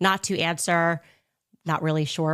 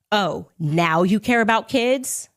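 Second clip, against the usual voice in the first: snide mock retort; slower than usual. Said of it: "then he says".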